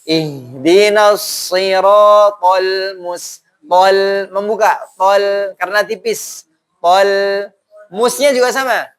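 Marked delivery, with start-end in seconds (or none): 0.0-3.4 Ihdinas siratal mus- spelled out slowly, with a thin s in mus; teacher drawing out each syllable; slow tajwid demo. Shown as a demonstration. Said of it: "shotnya tidak selalu sempurna".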